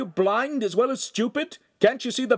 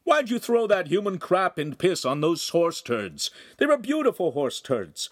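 high, loud furious yell from a window; angry shouting; 11 semitones higher, 3 dB louder than usual. Acted. Neighbor yelling down from his window at the oaf, furious. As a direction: scold the oaf at full voice. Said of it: "heard the neighbor shouting".

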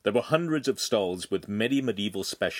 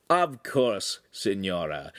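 courtly; slower than usual. Acted. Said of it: "said in a courtly fashion".

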